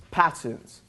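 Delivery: "patterns" with a crisp English t; English accent. Real, not acted. Presenter defining P for the audience, "patterns" in an English accent. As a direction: say "patterns" the English way, t fully sounded. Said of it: "It's my English accent".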